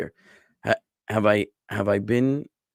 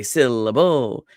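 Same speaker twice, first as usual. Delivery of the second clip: "syllable" as SIL-uh-BOOL; stress on both ends; 4 dB louder, slower than usual. Shown as a demonstration. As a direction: hit first and last of "syllable", not the middle. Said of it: "emphasis in the beginning and the".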